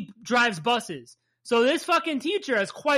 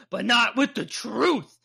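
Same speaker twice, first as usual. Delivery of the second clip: overdramatic, drawn-out villain delivery; slow and portentous, hamming it up; mock-grave melodrama, every word stretched; Magneto. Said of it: "so over fucking dramatic for what it was".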